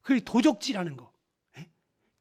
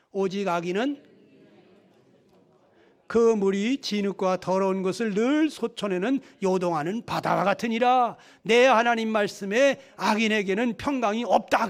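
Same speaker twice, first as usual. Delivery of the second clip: measured, congregational verse reading; scripture reading. Acted. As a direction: lead the congregation through the verse. Reads Isaiah verse with congregation. (회중과 함께 성경을 봉독하듯)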